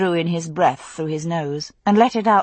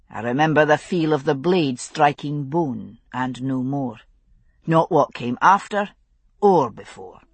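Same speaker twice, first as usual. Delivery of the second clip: lower, steady Highland father; Scottish father voice; 4 semitones lower than usual. Acted. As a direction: speak as a grave Scottish father.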